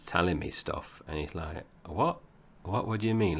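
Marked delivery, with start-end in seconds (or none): 1.9-3.4 mildly puzzled mock query, rising on "What"; baffled. Parent retelling talk with teenage son, baffled. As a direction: act out a higher, questioning reaction. Retold baffled reply to slang.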